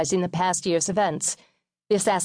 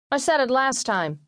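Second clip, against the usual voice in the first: put-on higher-pitched indignant boy; boy protesting; 7 semitones higher than usual. A narrator's reading. Oldest brother arguing at dinner over grace, protesting.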